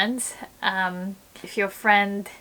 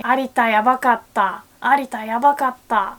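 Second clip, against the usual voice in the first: fast, louder "Arita yabakatta"; excited rave; 2 semitones higher, 6 dB louder, faster than usual. Retold or imitated. Fans raving about Alita, fast and loud. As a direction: gush about the movie. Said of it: "people say".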